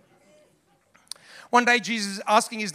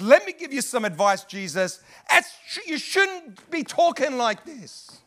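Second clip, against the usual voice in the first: slow, high, patronizing correction; overconfident advice; 5 semitones higher, slower than usual. Acted. Peter pulls Jesus aside to advise him, overconfident. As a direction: advise as if you know better. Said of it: "he's so confident".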